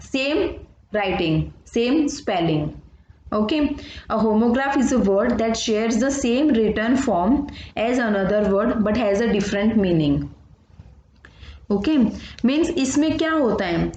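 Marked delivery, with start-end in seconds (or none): 4.1-10.2 textbook definition read out slowly and evenly; slow dictation. Acted. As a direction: read the definition so the class can copy it. (धीमी आवाज़ में परिभाषा लिखवाना)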